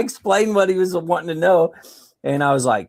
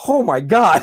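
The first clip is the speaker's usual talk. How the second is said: laughing in disbelief; embarrassed laugh at the surprise; laughing oh my god; 4 semitones higher, 4 dB louder, slower than usual. Retold or imitated. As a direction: blurt it out through a laugh.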